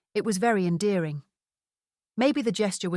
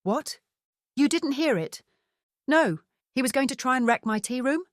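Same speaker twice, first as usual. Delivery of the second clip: shocked disbelief; 6 semitones higher than usual. A narrator's reading. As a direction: react as if you just did a double take. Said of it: "I did a double take".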